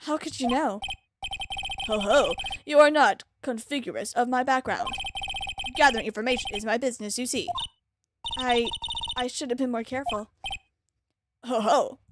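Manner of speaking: flat monotone villain. Acted. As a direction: read it in a monotone. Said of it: "I'm gonna do it in a monotone voice".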